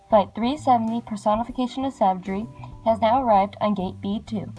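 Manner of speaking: over the intercom. Acted. Repeated airport announcement.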